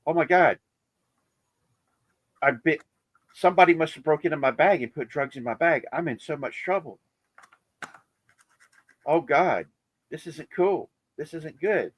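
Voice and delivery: mock worry about drugs in her bag; a hint of a frightened traveler at security; panicked traveler. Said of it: "She's like".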